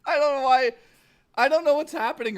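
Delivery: laughing. Real, not acted. Still laughing after outburst.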